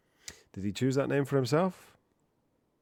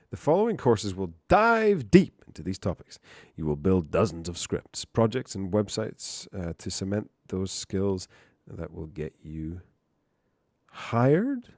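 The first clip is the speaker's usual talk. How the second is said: hammed-up promo reading, peaking on the last word; dramatic blurb read; 6 dB louder, slower than usual. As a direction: read it out with punched key words. Reads course blurb aloud.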